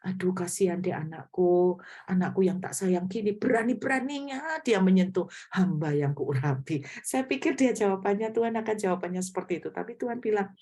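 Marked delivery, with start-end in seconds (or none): 0.0-6.8 mock-pitying parent cooing over a child; lightly hammed-up fussing over a wronged child; imagined doting God. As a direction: play an indulgent father taking the child's side. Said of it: "Saya pikir Tuhan bakalan begini".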